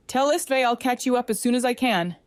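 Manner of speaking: loud call down corridor; calling after. Acted. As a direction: call after them as they go. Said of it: "he called after them".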